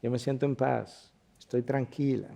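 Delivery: soft and settled, a touch of relief; calm, peaceful. Retold or imitated. Woman telling the pastor she finally feels at peace, soft and calm. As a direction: speak from newfound peace. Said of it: "Me decía".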